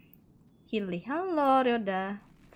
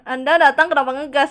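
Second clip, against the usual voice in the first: loud chat read; 4 semitones higher, 12 dB louder than usual. Retold or imitated. Ditanyain tuh.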